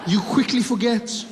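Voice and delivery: hammed-up reproach to a betraying friend; mock dramatic reproach. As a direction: deliver it like a wounded tragedian.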